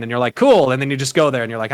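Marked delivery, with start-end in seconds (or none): 0.3-0.7 loud, high, hammed-up reply; overdone, punched-up agreement; mock player enthusiasm. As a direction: pop it out as an eager player. Acted player reply to quest.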